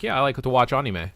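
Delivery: "anime" as ah-nee-may, in passing; no drawing out of "anime", just ah-nee-may; casual Japanese pronunciation. Retold or imitated. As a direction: drop a Japanese-style "anime" into easy talk. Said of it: "wasn't, like, really drawn out".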